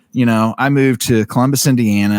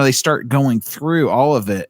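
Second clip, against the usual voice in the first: ordinary talk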